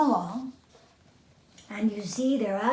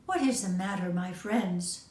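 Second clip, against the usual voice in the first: kindly. Acted. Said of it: "she asked kindly".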